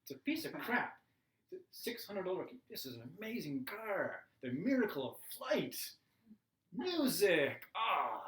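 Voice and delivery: mock blissful praise of the car; blissful driving. Good-mood driver on the way home, gushing happily. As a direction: gush like life is perfect.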